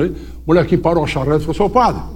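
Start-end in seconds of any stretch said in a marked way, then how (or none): 1.5-2.0 aviso rindo. Retold or imitated. Menino avisa rindo da cabrita.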